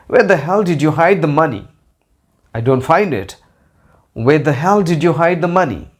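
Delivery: a teacher acting out annoyance at hidden money; annoyed. Shown as a demonstration. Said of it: "Annoyance or anger".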